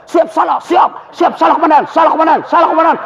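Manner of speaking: shouted drill answer to the commander; barking soldier reply. Retold or imitated. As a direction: snap back like a scolded cop. Scolded policeman answering commander.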